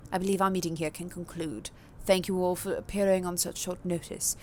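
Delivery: a hint of a formal, soft-spoken prince; calm ruler closing the meeting, understated; lightly voiced vampire prince. Prince voice again.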